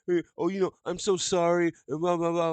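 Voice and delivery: high-pitched, insincere sorry act; mock apology. Mocking those who apologize without meaning it, fake contrite. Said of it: "what's the point of saying".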